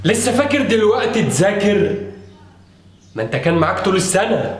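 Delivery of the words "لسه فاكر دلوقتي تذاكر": angry scolding. Acted. Father scolding son.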